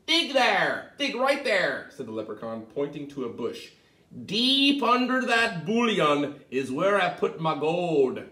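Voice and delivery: high, loud urgent pointing; eager leprechaun. Acted. The leprechaun telling Tom where to dig, high and loud. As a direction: urge him to dig right there.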